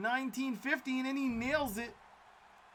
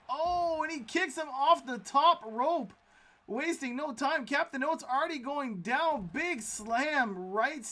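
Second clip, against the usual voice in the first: excited call; 5 semitones higher, 3 dB louder than usual. Real, not acted. Sudden big move, surprised call.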